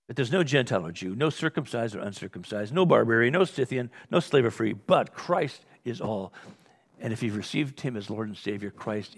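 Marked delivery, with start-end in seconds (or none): 0.1-6.3 emphatic preaching. Acted. Preaching climax.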